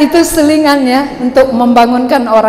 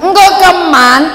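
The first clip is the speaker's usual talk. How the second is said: drawn-out Karo speech; 3 semitones higher, slower than usual. Shown as a demonstration. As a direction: stretch it out, Karo style. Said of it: "Kan panjang dia".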